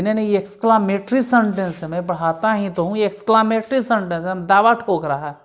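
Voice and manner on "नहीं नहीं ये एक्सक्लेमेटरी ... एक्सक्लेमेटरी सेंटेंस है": a know-all insisting he is right; insisting stubbornly. Retold or imitated. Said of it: "दावा ठोके". (अड़ियल दावे के साथ)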